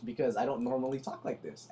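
real effort to keep the voice up; effortfully loud. Real, not acted. Explaining the effort to a co-host, trying to be loud. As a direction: push your natural volume up a little. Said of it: "putting in so much energy".

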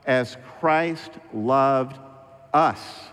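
very slow, with a pause before "us"; stress on "us". Shown as a demonstration. Pastor reading scripture to the church, stressing "us". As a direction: set "us" apart after a pause. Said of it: "Underline the word us".

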